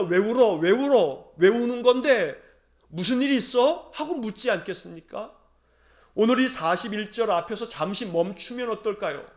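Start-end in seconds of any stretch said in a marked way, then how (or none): 0.0-3.9 asking a crying friend. Retold or imitated. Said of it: "누군가가 울고 있으면 묻지 않겠습니까".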